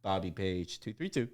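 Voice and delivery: slow, drawn-out store announcement; mock PA announcement; intercom page. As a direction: page him slowly like over an intercom. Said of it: "there's an intercom by the".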